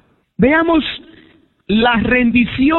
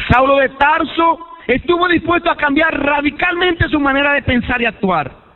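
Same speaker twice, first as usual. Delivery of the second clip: raised, insistent pulpit voice; impassioned preaching; 6 semitones higher than usual. Real, not acted. Preacher urging the brothers to surrender every area, impassioned. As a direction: drive each item home like a preacher.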